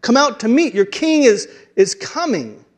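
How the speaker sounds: John calling out to the crowd. Acted. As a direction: urge them to get ready. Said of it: "he's calling out".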